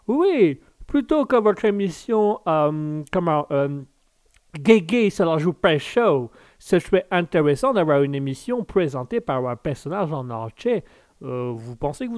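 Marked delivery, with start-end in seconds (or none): 0.1-6.3 hammed-up American accent in French. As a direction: play an American groping for French words. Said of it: "directement avec l'américain".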